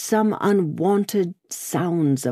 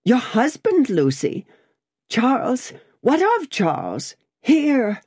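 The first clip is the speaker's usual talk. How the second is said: alarmed; 7 semitones higher than usual. A narrator's reading. Lorry alarmed at news.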